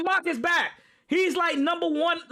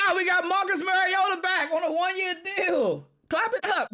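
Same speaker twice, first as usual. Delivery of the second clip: mock hype; 4 semitones higher than usual. Real, not acted. Ironic hype about backup QB.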